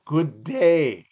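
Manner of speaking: hammed-up British send-off; British accent. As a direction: dismiss them like a stiff Brit. Mock British farewell.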